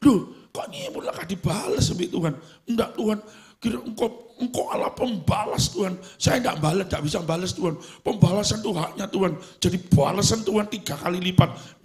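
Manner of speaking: a hint of a petulant believer arguing with God; mock complaining prayer. Believer bargaining with God for revenge, mock pleading.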